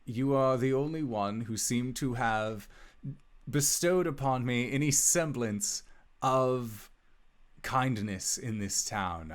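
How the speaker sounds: formal, measured letter reading; lightly dramatic reading of a farewell letter; letter read aloud. Acted. Wizard's last letter to dearest Albus, formal heartfelt reading. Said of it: "it says".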